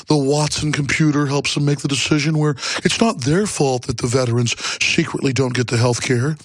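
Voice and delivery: even, measured public-radio parody; smooth mock-NPR reasonableness, lightly done. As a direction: imitate a mild public-radio host. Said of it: "we say it in an N P R voice".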